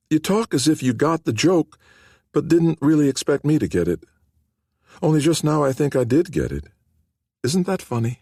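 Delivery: a hint of a shy sick teen, surprised; frail young woman. A narrator's reading. Nikki's voice in the story.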